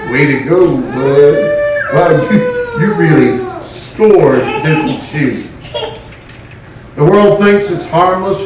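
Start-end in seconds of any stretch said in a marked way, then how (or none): 0.1-5.4 sarcastic praise. Acted. Mocking praise of Augustine's sin.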